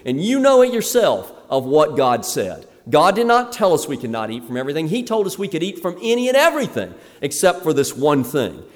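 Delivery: Adam firmly rebuking the serpent; firm rebuke. Pretend. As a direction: stand up to the serpent. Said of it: "he should have said".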